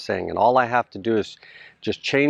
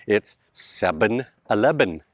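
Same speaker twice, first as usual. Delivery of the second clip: put-on "seven eleven" said as "sebən ilebən", with B for V, Pampanga accent. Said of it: "If you go to Pampanga".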